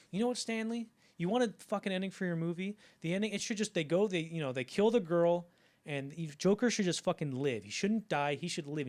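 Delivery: fed up. Retold or imitated. Actor fed up answering the director, mild exasperated rant. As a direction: vent it, fed up with the question. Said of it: "so fed up with this question".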